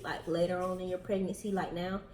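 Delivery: breathless from talking; short of breath while speaking. Real, not acted. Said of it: "I'm out of breath just from talking".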